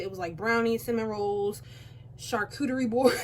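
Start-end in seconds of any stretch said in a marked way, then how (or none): 2.2-3.2 laughing. Real, not acted. Laughs at her own word.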